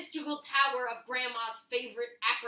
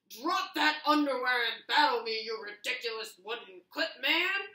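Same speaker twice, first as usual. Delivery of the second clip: louder bold warrior's challenge; 6 dB louder than usual. Acted. Rock the warrior challenging the clothespin, booming. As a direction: call out a rival like a brave hero.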